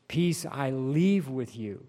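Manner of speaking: "leave" leaned on, slow and loud; slow, deliberate weight on "leave"; stress on leave. Real, not acted. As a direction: draw out and underline the word "leave". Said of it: "Underline that word leave".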